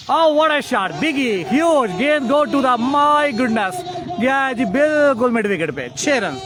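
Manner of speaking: high, loud shout of a huge six; excited shout. Real, not acted. Commentator calling a massive six, high and loud. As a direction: roar the six as it goes.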